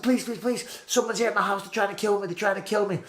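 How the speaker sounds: high, desperate plea to police; retold panicked plea for help; panicked pleading. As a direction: beg the operator for help. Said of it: "I said".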